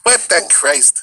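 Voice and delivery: slow, high Minnesota exclamation; Fargo accent. Acted. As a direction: draw it out high, in broad Fargo. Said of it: "Fargo accent".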